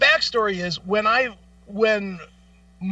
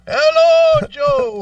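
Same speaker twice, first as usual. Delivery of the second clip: very high squeaky mock greeting; mock caller; 8 dB louder, much slower than usual. Friend mocks telemarketer with squeaky high greeting.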